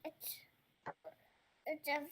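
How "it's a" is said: whispering. Real, not acted. Child whispers.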